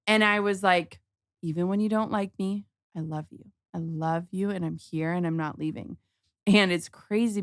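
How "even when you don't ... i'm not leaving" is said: softly reassuring, near a hush; soft reassurance. Retold or imitated. Mom soothing her daughter at bedtime, soft and tender. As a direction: gently promise you stay.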